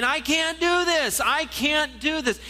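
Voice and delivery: high, slow, pleading wail; pleading cry. Acted. Preacher voicing young stutterer, high pleading wail.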